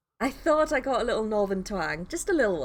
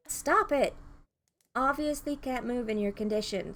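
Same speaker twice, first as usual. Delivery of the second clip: sharp command; 3 semitones higher than usual. Acted. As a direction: snap it out to halt him. Rushing to stop him standing.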